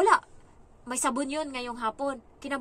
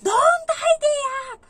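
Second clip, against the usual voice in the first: much higher, much louder, slow shrieking scream; all-out tantrum yell at the helper; child screaming; 15 dB louder, slower than usual. Retold or imitated. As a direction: scream it like a furious kid on the third try. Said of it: "Sumigaw ngayon pangatlong beses".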